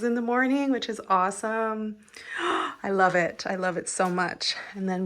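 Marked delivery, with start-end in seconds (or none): 2.2-2.8 sharp breathy gasp of delight; excited gasp. Real, not acted. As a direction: gasp as if seeing something lovely. Seeing the kitchenette, delighted.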